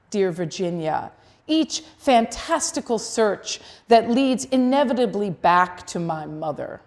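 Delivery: deliberate verse recital, phrase by phrase; poetry reading. Acted. Poet reads Vita's answer to Virginia to an audience, poetry reading. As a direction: recite it with weight on each image. Reads second poem aloud.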